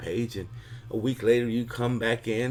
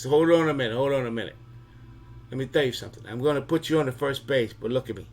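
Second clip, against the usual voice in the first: a lightly voiced mob boss laying down the law, louder; a hint of a Mafia godfather, louder and pushing; Godfather warning; 3 semitones higher, 3 dB louder than usual. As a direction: warn him like a don who means it. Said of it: "you hear this voice again that says".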